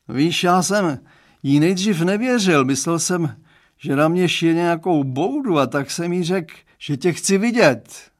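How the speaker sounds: put-on dad confiding in the boy; Mr Stránský's voice. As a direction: play the girl's dad, earnest and chatty. Father speaks in story.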